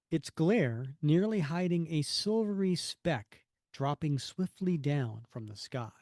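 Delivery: measured, dramatic caption reading; deliberate storybook scene-setting; story narration. Acted. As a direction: narrate it grandly, slowing on the scenery. Reads comic caption aloud.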